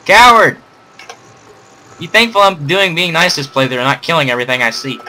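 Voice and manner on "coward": mock insult. Insulting the idle companion.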